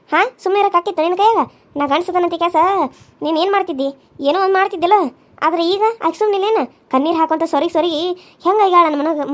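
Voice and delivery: mild angry lecture; mother-in-law scolding son-in-law. Acted. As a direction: reproach him firmly. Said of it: "ಭಾಳ ಸಿಟ್ಟು ಬಂದತ್".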